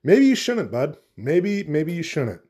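a hint of high, condescending duck voices; gently discourage him, slow and patronising; lightly voiced snooty duck; mock ducks. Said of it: "the other ducks are like".

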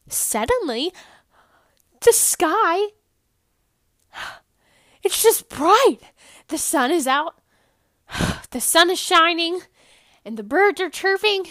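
high, loud, bubbly overexcited delivery; exaggerated cheery storytelling. Podcaster hamming up a happy grocery trip, over-the-top cheerful. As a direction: ham up the giddy happiness. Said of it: "I know I'm being funny".

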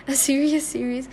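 amused laugh through the words. Shown as a demonstration. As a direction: chuckle at the wordplay.

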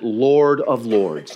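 slow, drawn-out grand title; booming divine pronouncement. Acted. Preacher imagining God's announcement, booming slowly. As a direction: proclaim it slowly like God with reverb. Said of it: "Put some reverb on it".

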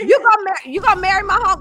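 high, loud disbelief; can't believe what she heard; shocked. Real, not acted. Shocked at marriage pick.

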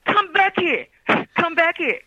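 high, loud imitation of a bratty toddler; child's yelling. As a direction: yell it like a spoiled little girl stamping her feet. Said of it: "with the accent and the yelling".

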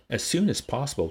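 "as soon as possible" stressed firmly; emphatic repeat. A narrator's reading. Bernard instructing the warden, emphatic repeat of "as soon as possible". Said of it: "he emphatically repeated".

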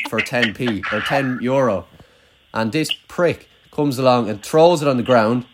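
slow, hammed-up sob story; milk it like a tragic tale, slowly; mock tearful. Telling his mate about the lunchbox, mock tearful and slow. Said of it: "I'm actually gonna cry".

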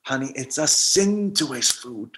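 slow, soft solemn warning; solemn grandma warning. Retold or imitated. Grandmother warning grandson it's a sin, slow and soft. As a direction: lay on the guilt gently.

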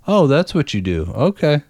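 imitating an unfazed coworker feigning ignorance; acting clueless. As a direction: play dumb, as if just learning it. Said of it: "Just acting like".

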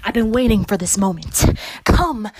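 gloating threat. Acted. Relishes the chance to retaliate.

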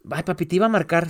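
a hint of a girl excusing herself; imitating daughter. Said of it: "no me hablaba ella".

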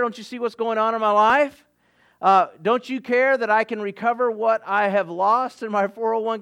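a hint of a desperate prayer; anguished plea. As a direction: plead with God one worry after another. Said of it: "Perhaps you might be saying".

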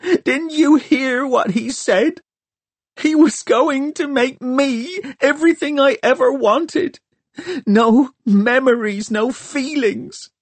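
put-on a furious girl screaming at the boy who interfered; screaming in anger. A narrator's reading. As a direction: fling every word at him in despair. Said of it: "screamed Hester".

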